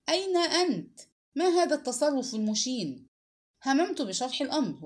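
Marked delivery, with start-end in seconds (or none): 0.1-3.1 higher, louder angry shout down the line; raised, scolding yell. A narrator's reading. Boss on the phone to a missing subordinate, shouting. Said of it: "فإذا به يصيح".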